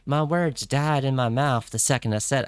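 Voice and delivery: put-on playful light cowboy accent; joking cowboy accent. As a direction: read it in a hint of cowboy accent. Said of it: "should I do an accent now since I got the cowboy hat".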